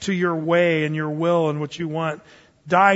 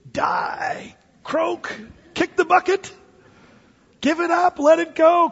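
rising emphatic list; 10 semitones higher, slower than usual. Real, not acted. Rapid string of high commands.

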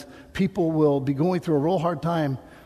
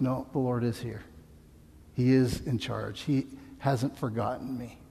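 quiet reassurance; 3 semitones lower, 6 dB quieter than usual. Retold or imitated. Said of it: "you realize".

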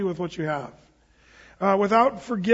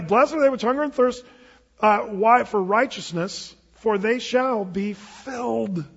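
emphatic recitation; 3 semitones higher than usual. Shown as a demonstration. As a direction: proclaim the verse with force. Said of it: "Hey, come on, this is a Sermon on the Mount".

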